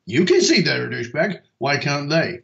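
exasperated rant. Retold or imitated. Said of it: "looked at a friend and gone".

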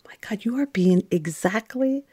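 whispering to herself in shock; a hushed, breathless realization; inner whisper. Retold or imitated. Nun alone in the chapel, whispering to herself. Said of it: "there was this moment of".

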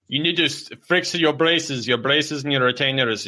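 scolding parent. Acted. Acted parent scolding junior.

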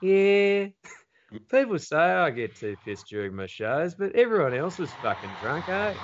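mock Jim Jeffries brushing off being drunk; imitating Jim Jeffries. Comedian mimics Jim Jeffries at lawn bowls, as a hammed-up Aussie bloke. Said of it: "He's there like".

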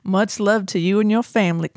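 the line read with a light Tennessee twang; mild Southern accent. Acted. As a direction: lean into a gentle country accent. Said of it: "I'm gonna cut out the accent".

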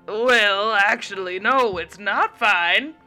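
firm waitress. A narrator's reading. Waitress refuses Mary's coffee order, firm and loud. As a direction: put your foot down.

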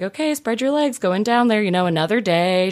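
calm doctor. Retold or imitated. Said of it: "She's calm".

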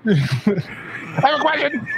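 high-pitched mock blurt; Tourette's-style ego outburst. Co-host mimicking the host's need to talk, high-pitched outburst. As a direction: squeal it like an uncontrollable interruption. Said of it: "where you're like".

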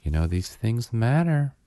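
patronising lecture with drawn-out pauses; mock a slow, endless scolding about dental care; slow, nonstop lecturing. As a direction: imitate a condescending hygienist droning on. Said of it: "so slowly and nonstop was like".

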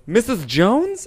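high, drawn-out questioning call; mock puzzled calling. Man calling out to a doll in the bed, puzzled. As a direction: call the name slowly, rising in bewilderment.

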